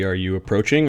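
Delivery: normal talking voice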